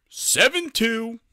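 high, drawn-out mock shout; imitated heckler calling out; blurted-out shout. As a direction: yell out the score, long and high. Imitates someone blurting out scores.

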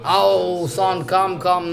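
a half-hearted imitation of sobbing "son, come"; a touch of mock weeping for the son; mock crying call. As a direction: lightly fake a tearful plea to come. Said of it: "crying for son".

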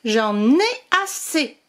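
slow, mildly grumbling complaint. Acted. Tired witch grumbling at the playful dragon. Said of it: "maugréa Pélagie".

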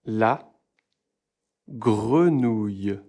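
grenouille drawn out slowly as ɡʁənuj; slow model. Shown as a demonstration. Teacher slowly modelling grenouille. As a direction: stretch every sound of grenouille. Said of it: "Regardez ma bouche".

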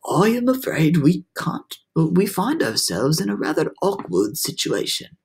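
put-on high, measured old grasshopper; hiding fear and disappointment. A narrator's reading. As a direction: understate the dismay, keep composed. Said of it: "keep the fear and disappointment all out".

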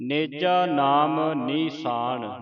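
slow line coming to rest on ਨੀਸਾਨ; pause on ਨੀਸਾਨ. Shown as a demonstration. Teacher modelling the verse, resting on ਨੀਸਾਨ. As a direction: draw out the line and stop after ਨੀਸਾਨ. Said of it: "ਨੀਸਾਨ ਤੇ ਵਿਸਰਾਮ ਲਾਉਣਾ ਹੈ".

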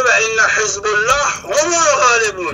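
slow, drawn-out Arabic recitation; quran recitation. Acted. Quoting the Quran to his listeners, slow recitation. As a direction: intone the verse slowly like a reciter.

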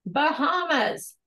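talking while chewing chips; munching chips. Real, not acted. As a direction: say it through a mouthful of chips. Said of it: "I'm munching on some chips".

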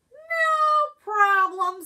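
very high, loud and slow little mole; cheerful squeaky mole. Acted. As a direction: stretch it out in a tiny mole voice. Mole answers groundhog.

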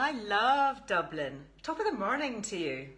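a lightly put-on Irish brogue, only a hint of it; bad Irish accent. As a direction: toss off a cheesy Irish greeting in a self-admittedly terrible Irish accent. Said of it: "That's a terrible accent".

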